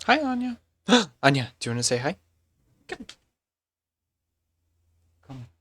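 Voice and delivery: high, excited squeal to a dog; pet-greeting voice. Real, not acted. Streamer spotting the dog, high delighted greeting.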